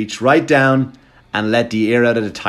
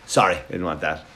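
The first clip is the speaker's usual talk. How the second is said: aside off mic; 5 semitones lower, 6 dB quieter, faster than usual. Real, not acted. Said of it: "Hang on a sec".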